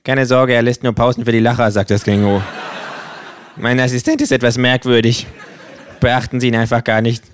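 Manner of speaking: a hint of the smug kangaroo.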